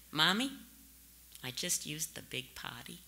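lightly voiced little girl, softly; a hint of a tiny toddler on the phone; small child's voice. Two-year-old daughter calling her briefer mother at work, small soft voice. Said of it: "there was a small little voice".

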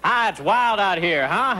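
lightly voiced Bob Hope quip; a hint of Bob Hope, slowed; Bob Hope impression. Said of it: "That's my Bob Hope impression".

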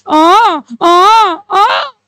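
mock sobbing wail; mock crying. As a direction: wail theatrically for the class. Acting a firm crying over losses.

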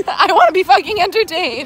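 loud, laughing and high; laughing demand. Real, not acted.

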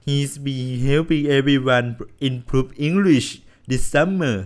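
lightly put-on cheery English teacher. Gamer voices the teacher greeting class, light cheer.

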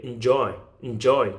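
"enjoy" with "en" as weak as possible; first syllable weakened. Shown as a demonstration. Teacher models enjoy for learners, front syllable weakened. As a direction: reduce "en" to almost nothing before "joy". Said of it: "최대한 약하게".

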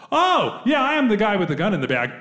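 breezy, high-pitched owning up; sudden high "oh" of recognition, then easy admission; blithe admission. Retold or imitated. Comic answering the man in the suit, blithely owning up.

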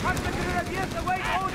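urgent battlefield call; shouted readiness report. Acted. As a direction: call out ready over the fighting. Squad calls out ready in battle.

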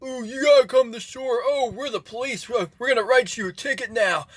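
hammed-up mocking impression of the beach patrol; mocking lifeguards. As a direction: mimic them like whiny killjoys. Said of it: "these stupid asshole fucking lifeguards are going".

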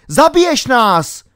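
high, loud, outraged shout; frantic high-pitched yell; roaring in panic. A narrator's reading. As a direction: yell at the driver in alarm. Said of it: "řval King".

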